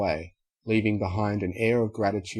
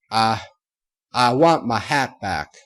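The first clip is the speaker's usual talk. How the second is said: louder with a stammer; tearful; 7 dB louder than usual. A narrator's reading. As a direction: through tears, a simple wish. Applejack crying.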